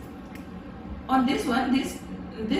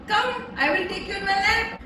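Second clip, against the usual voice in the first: mother duck; 6 semitones higher than usual. Pretend. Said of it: "mother duck said".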